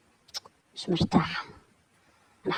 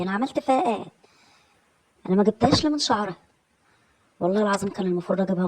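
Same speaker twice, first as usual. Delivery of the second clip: raised, aggrieved protest; indignant grumbling; faster than usual. Acted. Sleepless woman fuming over her neighbour's dirty looks, indignant.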